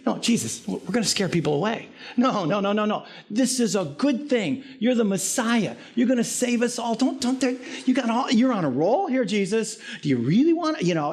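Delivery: lightly voiced disciple begging Jesus to stop; Peter pleading. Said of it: "I can see him".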